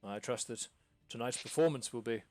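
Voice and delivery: stuffy nobleman looking down his nose; pompous lord. Acted. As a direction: lord it over the theatre folk. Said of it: "Lord Fortescue looks up and goes".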